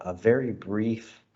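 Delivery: "brief" drawn out slowly and leaned on; stress on brief. Real, not acted. Host nudging the trade commissioner to keep it short, stressing "brief". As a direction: lean on "brief" as a teasing hint. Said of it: "you're emphasizing the word brief there".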